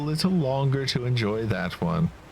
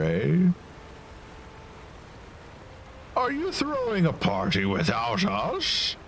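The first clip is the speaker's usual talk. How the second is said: higher, slow reproachful voice; lightly voiced annoyed islander; 4 semitones higher, slower than usual. Islander scolds the friends for not telling them. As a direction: chide them for partying without you.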